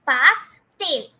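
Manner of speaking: pastel broken into pas, TEL; syllable-by-syllable Spanish. Shown as a demonstration. Teacher modelling the cake word for students, pas... TEL. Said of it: "but it is pastel".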